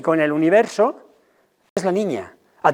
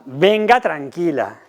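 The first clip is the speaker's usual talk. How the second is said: hushing parent; slower than usual. Shown as a demonstration. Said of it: "¿Eso a quién tranquiliza?".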